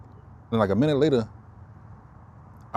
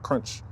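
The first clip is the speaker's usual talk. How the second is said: crunch sound; 5 dB quieter than usual. Shown as a demonstration. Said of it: "That's why I say it like that".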